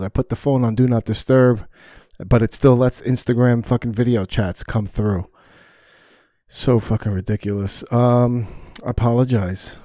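loud, irritated venting; real exasperated rant; frustrated. Real, not acted. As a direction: complain loudly, thoroughly fed up. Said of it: "I got so frustrated".

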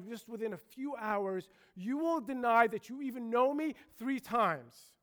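building to a loud, certain pronouncement; firm prediction. Acted. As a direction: press each phrase home as a grave warning. Preacher voices Jesus foretelling denial.

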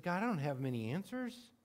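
soft, humble plea fading away; quiet honest prayer. Retold or imitated. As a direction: confess it softly to God. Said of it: "You just said".

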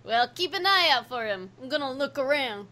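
lightly done American Italian accent; easygoing American Italian accent. Shown as a demonstration. Promising to look out for Rocky, American Italian accent. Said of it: "do your best American Italian accent".

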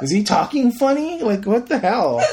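high-pitched, laughing confusion; baffled. Retold or imitated. Recalling a movie scene where the accent slips, high and baffled. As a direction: sound thrown by the vanishing accent. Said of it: "I was like".

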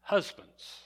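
Husbands pitched high, falling, then a long pause; stress on Husbands. Shown as a demonstration. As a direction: isolate Husbands with a high attack. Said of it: "we emphasize each word in the verse".

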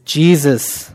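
soft, low, prayerful murmur; hushed, fading Jesus prayer; quiet prayer. Shown as a demonstration. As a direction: pray it softly to yourself. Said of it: "which I say to myself often".

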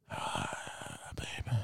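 barely audible breathy whisper; sleep talking. Retold or imitated. Boyfriend dreaming, calling to girlfriend, whispered sleep talk. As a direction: imitate murmuring from inside a dream. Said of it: "I'm dreaming".

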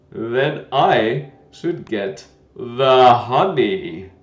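put-on loud, gentle old knight; a kindly, bumbling old knight; White Knight voice.

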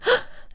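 short scandalized intake of breath; shocked gasp. Acted. Mother bird hears the rude ring, shocked gasp.

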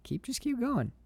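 doing a high breathy Danny Aiello; Danny Aiello impression. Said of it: "that's what Danny Aiello keeps telling him".

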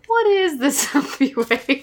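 slow, laughing disbelief; mock bafflement. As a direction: question it slowly through a laugh. Mocks the zombie line she retells.

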